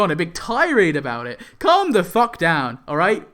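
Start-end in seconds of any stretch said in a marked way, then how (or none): 1.6-3.3 slow, louder and higher scolding; slow it down and tell them off; fed-up scolding. Real, not acted. Vlogger scolding angry commenters, slow fed-up yell.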